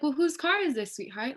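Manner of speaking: mock-sweet, patronizing tone; a hint of an imitated condescending lady; condescending white woman voice. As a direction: talk down to her like a nosy stranger. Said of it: "that little condescending white woman voice".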